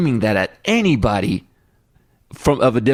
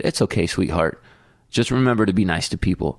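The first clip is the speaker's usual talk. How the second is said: kind lady; 5 semitones lower than usual. Retold or imitated. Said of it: "and she said".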